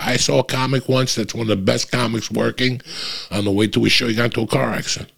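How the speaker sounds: usual speaking voice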